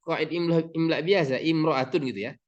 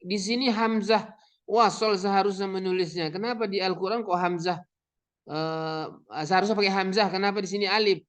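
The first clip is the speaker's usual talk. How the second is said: student's question; 4 semitones higher than usual. Retold or imitated. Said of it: "kalau ada murid kita".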